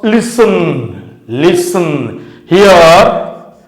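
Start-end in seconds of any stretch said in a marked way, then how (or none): 0.0-2.4 Listen with weight on LIS, falling away on the second syllable; stress on first syllable. Shown as a demonstration. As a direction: lean on the first syllable of Listen, let the rest drop. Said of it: "The first syllable is stressed".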